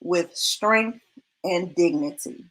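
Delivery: slow, measured scripture reading. Shown as a demonstration. Reading Proverbs to viewers, slow and measured. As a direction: read it out slowly like a verse from the pulpit. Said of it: "it says".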